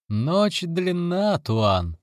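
slow, gentle and soothing; soft and gentle. Acted. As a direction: soften it, unhurried. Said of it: "мягко возразил Бабалачи".

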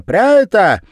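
put-on high loud children's shout. A narrator's reading. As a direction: call it out together. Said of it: "закричали ребята".

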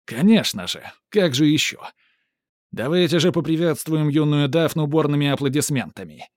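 loud, beaming showman; joyful exclaiming. Acted. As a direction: rouse the crowd to applaud. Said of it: "радостно восклицает Сарацин". (радостный конферансье)

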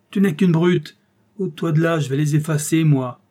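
loud, high scolding; angry general. Acted. General pushes Ossip aside to do it himself, angry. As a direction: tear into the clumsy servant.

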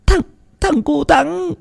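high, slow, broken tearful voice. A narrator's reading. Tearful aunt confirming the boy's death, high slow sobs. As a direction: barely get it out through tears. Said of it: "nước mắt đã tèm lem".

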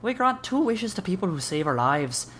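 a touch of Irish lilt, matter-of-fact; Irish accent. Acted. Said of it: "in an Irish accent".

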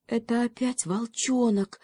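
a touch of alarm; frightened. Acted. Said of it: "испугался козлёнок".

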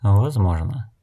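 even, unruffled reply; unperturbed. Acted. Blind woman answers the offended elder, unperturbed. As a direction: concede it calmly, without rising to it. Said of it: "невозмутимо отметила Нелти".

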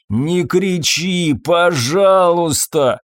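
slow, shaking begging; trembling plea. A narrator's reading. Fabien shakes and begs Irene to stop yelling, slow. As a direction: plead through the fear. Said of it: "трясся он".

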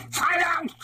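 very high squeaking alien command; squeaked. A narrator's reading. The glass Dalek in a rage silencing the doctor, squeaked very high. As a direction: snap it out in a tiny shrill-pitched alien squeak. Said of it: "it squeaked".

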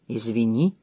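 low, soft, sorrowful; subdued and regretful; sad apology. A narrator's reading. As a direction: apologise sadly under your breath. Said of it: "печально произнёс он".

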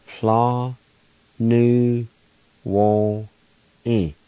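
Fla nu won e sounded out one syllable at a time; teacher sounding out Fla nu won e. Shown as a demonstration. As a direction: break Fla nu won e apart.

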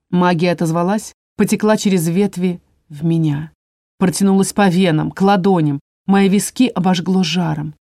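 plain reading voice

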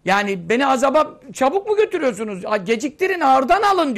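acted plea, climbing high and loud at the end; pleading cry. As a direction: beg the bearers to hold back. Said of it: "O cenazenin tabuttaki bağırmasını".

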